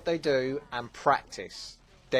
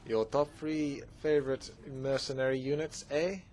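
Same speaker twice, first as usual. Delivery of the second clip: mock Canadian accent. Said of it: "I can't really do Cana-, Canada, I'm sorry".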